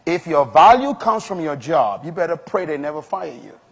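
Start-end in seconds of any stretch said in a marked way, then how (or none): 0.1-2.0 slow, deliberate repeat; measured, emphatic slow delivery; very slowly. Shown as a demonstration. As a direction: spell it out slowly for slow learners. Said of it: "Let me repeat it again very slowly".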